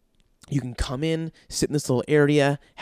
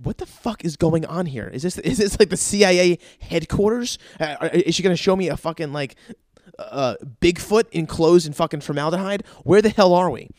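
incredulous outburst; 3 semitones higher than usual. Retold or imitated. Newcomer at a mystery sushi place, reacting in incredulous disbelief. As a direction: play up the bewildered outburst. Acts out baffled reaction on arrival.

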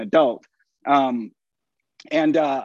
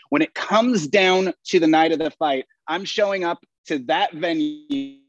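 wrestling promo. Pretend. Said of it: "I want you to give us your best promo".

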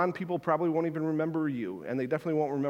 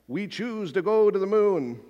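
put-on a lightly done Boston-Kennedy accent, a bit higher; hint of a Kennedy accent, mildly raised pitch; JFK impression; 4 semitones higher than usual. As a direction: quote it like JFK at the podium, Boston vowels. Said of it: "I don't really have a good accent".

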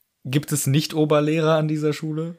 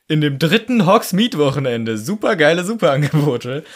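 mock advertising slogan; 3 semitones higher, 5 dB louder than usual. Mock shop bag slogan read out.

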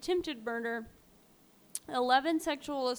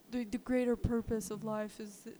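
lightly voiced stoner philosopher; stoned rambler; 3 dB quieter than usual. Weed smoker ranting about life and the universe, mildly stoned musing. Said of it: "that's how he talks".

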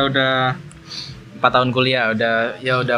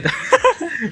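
high laugh. Real, not acted. Laughs at the joke.

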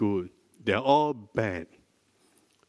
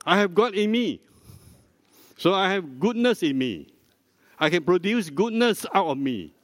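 bold declaration; 4 semitones higher than usual. Shown as a demonstration.

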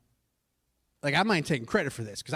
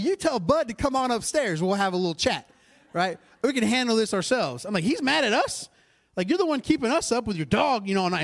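higher, louder fired-up retort; indignant retort; 5 semitones higher, 3 dB louder than usual. Retold or imitated. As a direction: push back, incredulous and fired up. Indignant reply to building management.

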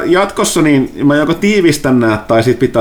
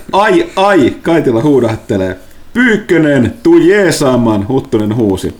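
game master narration; 2 semitones higher than usual. Acted.

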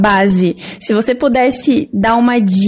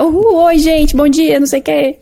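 bright, much higher perky influencer hello; mock stories greeting; 6 semitones higher than usual. Host mocking experts who do stories daily, perky higher voice. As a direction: parody an expert's chirpy daily stories opener. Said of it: "Aquele que precisa fazer stories todo dia".

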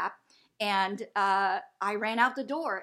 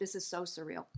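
awed hush; 3 semitones lower, 9 dB quieter than usual. Retold or imitated. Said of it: "and I was like".

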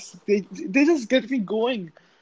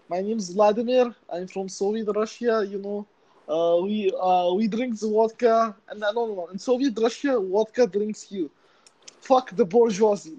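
put-on Russian accent. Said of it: "Do your Russian one".

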